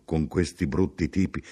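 understated polite agreement; noncommittal echo. Acted. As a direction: repeat it back without investment. Narrator echoes him noncommittally.

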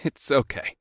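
awkward, laughing reassurance; awkward chuckle. A narrator's reading. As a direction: laugh it off nervously. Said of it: "with an awkward chuckle".

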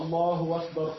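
"الله أكبر" said "Allahu wakbar"; no glottal stop, a w opens "أكبر"; hamza turned to waw. Shown as a demonstration. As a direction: run "الله" smoothly into "wakbar". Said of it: "أبدل همزته واوا".

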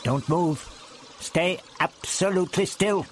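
firm, steady command. Acted. The Doctor ordering the trapped Ian to stay still, firm command. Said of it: "the doctor commanded".

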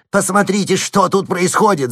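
frightened landowner squealing. A narrator's reading. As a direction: let the panic squeal out. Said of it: "завизжал он".

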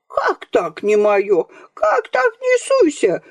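grandmother's outraged cry, climbing very high. A narrator's reading. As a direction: explode in indignation. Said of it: "громче прежнего закричала".

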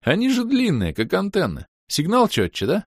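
the villain jokes about elf ears, high and mocking; mocking jibe. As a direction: poke fun, pitched high.

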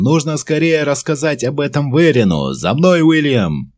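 loud, high urgent shout up the stairs. A narrator's reading. Commander shouting to William while running upstairs, loud call. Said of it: "с криком".

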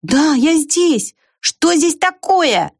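high, very slow called answer; calling back. A narrator's reading. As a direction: stretch it out to be heard far off. Squirrel calls back over fence.

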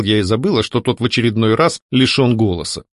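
plain reading voice

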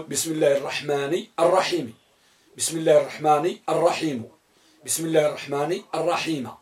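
بسم الله الرحمن الرحيم with الرحيمِ, الرحيمُ, الرحيمَ; recite three readings. Shown as a demonstration. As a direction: recite the basmala three times, changing the last vowel. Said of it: "تقول". (قراءة البسملة بثلاثة أوجه)

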